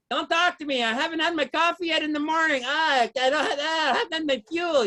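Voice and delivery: imitating a whiny coffee drinker; hammed-up grumbling; mock complaining. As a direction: moan lightly like a needy caffeine addict. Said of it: "they're always complaining".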